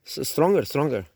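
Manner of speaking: urging stronger, then easing off. Shown as a demonstration. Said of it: "You need more volume".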